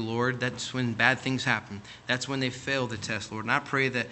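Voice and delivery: steady closing prayer to God, earnest. Real, not acted. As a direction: pray aloud for the congregation, earnest.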